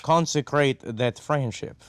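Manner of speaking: slow, weighty "Consecrate that friendship"; lingering on "Consecrate" as if sacred; odd slow delivery. Acted. Ambassador repeating the phrase, slow and solemn. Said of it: "Why are you saying it like that?".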